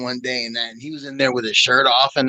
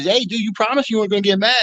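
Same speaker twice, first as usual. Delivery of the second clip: higher, hurried reminder; mock protest; 6 semitones higher, faster than usual. Soldier reminding the angry sergeant he promised, protesting. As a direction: plead your case quickly, half joking.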